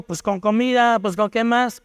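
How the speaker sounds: a mild, lightly voiced scoff; mocking tone. Young man mocking the gospel tract, mild mocking scoff. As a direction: toss it off like a dismissive joke. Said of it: "burlándose en un tono burlón".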